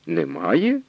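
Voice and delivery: angry cry. A narrator's reading. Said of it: "гнівно скрикнув Потоцький".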